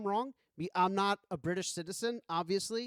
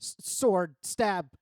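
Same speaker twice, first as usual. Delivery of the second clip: louder, blunt one-word barks of a simple fighter; mock caveman grunts, louder; dumb player; 2 semitones higher, 7 dB louder, much slower than usual. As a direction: play a mock simple-minded brute shouting out his moves. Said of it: "you're like".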